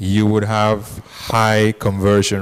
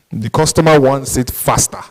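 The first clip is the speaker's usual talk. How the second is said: "faster" given the emphasis at the end; stress on faster; 2 semitones higher than usual. Real, not acted. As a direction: land firmly on the word "faster". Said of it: "emphasis on the word faster".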